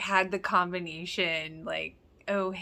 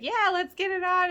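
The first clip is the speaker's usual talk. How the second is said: flirty Brooke; 10 semitones higher than usual. Retold or imitated. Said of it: "and then Brooke being like".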